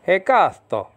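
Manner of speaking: Hekasto with a lifted Greek KA. Shown as a demonstration. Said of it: "Read it like that".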